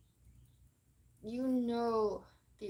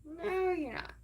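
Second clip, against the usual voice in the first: sharp, loud, higher comeback; defiant retort; 7 semitones higher, 6 dB louder than usual. Retold or imitated. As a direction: shut them down hard. Defiant reply to the bullies.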